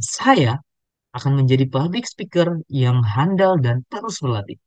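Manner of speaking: "saya" set apart by a pause, rest slow; emphatic, separated "saya" opening a slow sentence; stress on "saya". Shown as a demonstration. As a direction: lean on "saya", pause, then slowly give the rest. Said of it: "Boldnya itu kita bisa menggambarkan".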